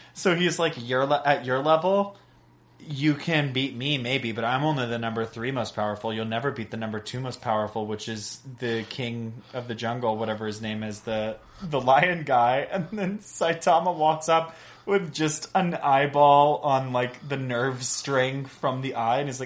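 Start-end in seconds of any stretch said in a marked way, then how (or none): none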